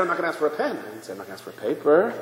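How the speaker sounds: soft, mock-innocent protest; acted meek self-defence; sly excuse. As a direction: drop the voice and split hairs.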